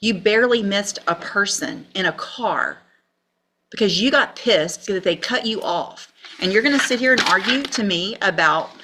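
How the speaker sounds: forceful, incredulous dressing-down; indignant scolding. Real, not acted. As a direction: hammer the offence home in disbelief. Judge berates defendant for his crime.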